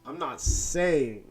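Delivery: slow, drawn-out insinuation; deliberate, teasing build-up; mock-dramatic. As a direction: stretch it out for comic suspense. Mock-solemn case that guest is Bond.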